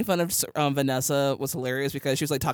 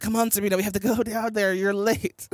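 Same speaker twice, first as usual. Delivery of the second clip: mildly impatient imitation, slightly raised pitch; mock angry planner; 5 semitones higher than usual. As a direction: hurry her along like a cross planner. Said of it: "He's so angry".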